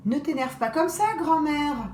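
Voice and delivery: put-on soothing girl calming grandmother; gentle voice. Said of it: "d'une voix toute douce".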